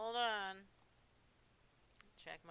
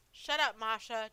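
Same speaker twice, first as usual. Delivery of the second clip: louder, curt command; husband snapping at Masha, louder; angry snap; 8 dB louder than usual. Acted. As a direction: silence her harshly. Husband snaps at wife.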